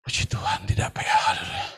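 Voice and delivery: high squeaky falsetto praise; mock pious falsetto. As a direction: squeak it like a fake-pious churchgoer. Jemaat pura-pura saleh. (suara falsetto tinggi mengejek)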